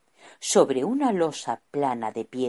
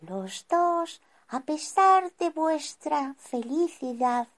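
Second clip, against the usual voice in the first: serene, higher wise wizard. Acted. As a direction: speak serenely and wisely. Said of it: "con voz serena".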